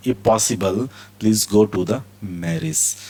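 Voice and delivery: drawn out slowly; slow model reading. Shown as a demonstration. Teacher dictates the example slowly to students. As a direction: read it slowly so it sinks in. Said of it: "teacher models example sentence".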